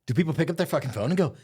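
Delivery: high, loud mock voice of a sucker; mocking a gullible caller. Mocking dumb phone buyer.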